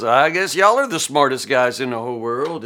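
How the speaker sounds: understated mock praise; sarcastic. Preacher voices Job to his know-it-all friends, lightly sarcastic. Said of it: "or sarcastically".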